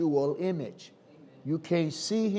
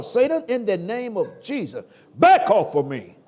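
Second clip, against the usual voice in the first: commanding rebuke. Shown as a demonstration. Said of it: "talk to him like that".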